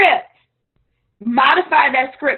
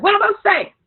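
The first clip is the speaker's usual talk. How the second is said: mock panicked newbie; 8 semitones higher, 3 dB louder, much faster than usual. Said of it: "running to your upline like".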